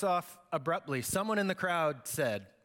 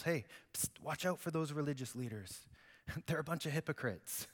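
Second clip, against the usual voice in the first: hushed warning, softer than the preaching; confidential aside; 2 semitones lower, 6 dB quieter than usual. Acted. Jesus warning disciples about religious leaders, confidential aside. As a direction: drop the volume as if tipping off friends.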